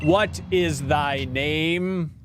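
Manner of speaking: slow, lightly deepened godly voice; a hint of a solemn deity; Arceus voice. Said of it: "my Arceus impression".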